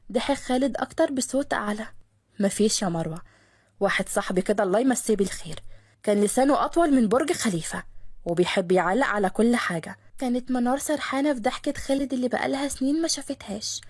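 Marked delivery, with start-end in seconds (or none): 2.4-10.0 lower, amused cover story; Khaled voiced. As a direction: hide the joke, lower. Khaled covers his laugh. (خالد بصوت أوطى بيداري ضحكته)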